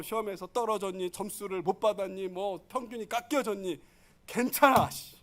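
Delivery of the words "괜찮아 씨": breezy parent. Retold or imitated. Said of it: "엄마도 못 봤어요".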